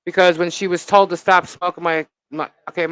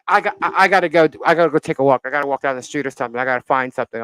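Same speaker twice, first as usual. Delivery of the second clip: mock panicky rush; faster than usual. Friend's panicky excuse, acted out.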